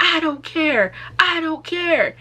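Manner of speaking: imitated cop, high and loud, brushing her off; dismissive officer. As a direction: toss it off like a cold cop.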